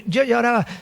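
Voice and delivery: ordinary talk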